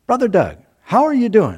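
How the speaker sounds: retold hearty hail, pitched well up; imitating an older friend's cheery hello; hearty greeting. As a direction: greet a friend across the street, high and lively.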